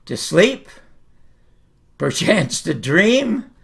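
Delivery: slow, dreamy lift on the repeated line; slow wondering soliloquy. Shown as a demonstration. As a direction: rise from sleep toward the thought of dreams. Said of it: "And here it is".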